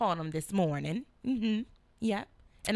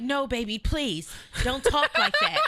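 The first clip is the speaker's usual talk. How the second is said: mock pleading boyfriend; 3 semitones higher, 4 dB louder than usual. Mocking son's texts.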